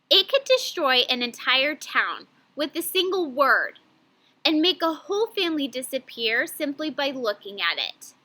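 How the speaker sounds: flowing read with a breath before and; one smooth scoop, then pause at and. Shown as a demonstration. Teacher models pausing at and for class. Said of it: "So I pause".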